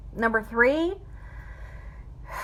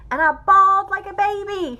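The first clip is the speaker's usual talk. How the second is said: tearful; 10 semitones higher, 5 dB louder than usual. Real, not acted. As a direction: voice cracking high on real tears. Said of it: "I'm gonna try not to cry".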